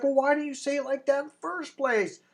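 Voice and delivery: the woman warming to the friend's new line, voiced high; mock woman voice. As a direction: play her sudden approval. Woman's reply, voiced in story.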